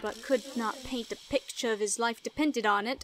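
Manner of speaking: needling British pirate; British accent. Acted. Pirate hinting the little artist is an imposter, British accent. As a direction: tease in a put-on British accent. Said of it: "just gonna make him British".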